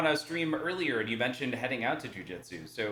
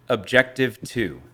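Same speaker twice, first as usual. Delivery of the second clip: slow, louder announcer call; fighting game announcer; 10 dB louder, slower than usual. Pretend. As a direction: drag it out like an arena announcer. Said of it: "we're gonna try it one more time".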